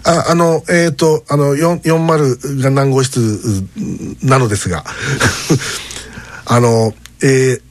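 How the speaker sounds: nervous student calls the hotel front desk in Kumamoto dialect. Retold or imitated. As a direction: fumble every word like a stiff, nervous schoolboy. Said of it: "ガチガチに緊張しながら".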